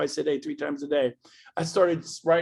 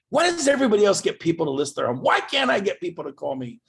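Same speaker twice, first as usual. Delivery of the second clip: frustrated inner voice; 4 dB louder than usual. Retold or imitated. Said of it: "I was so frustrated".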